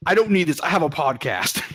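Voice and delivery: high, loud mock-frustrated outburst; retold yell. Gas station worker to a customer, exasperated mock yell. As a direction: imitate a fed-up worker losing it. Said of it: "and he just yelled".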